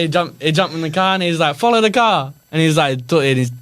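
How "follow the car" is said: mock movie cop. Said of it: "talking in another language".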